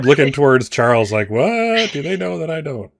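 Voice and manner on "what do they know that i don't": high startled what, then puzzled; sudden baffled double take; confused surprise. Acted. Ranger looking at Charles, baffled surprise.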